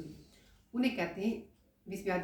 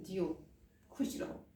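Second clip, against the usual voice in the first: blessing; 5 dB quieter than usual. Shown as a demonstration. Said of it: "तो बदले भी बोलते हैं".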